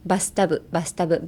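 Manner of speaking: "バスタブ" said like linked "best of"; joined-up "バスタブ" for "best of"; linking demo. Shown as a demonstration. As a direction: run it together as "バスタブ". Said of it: "バスタブみたいな感じでつなげます".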